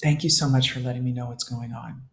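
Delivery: tender self-talk. Shown as a demonstration. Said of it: "The first one is".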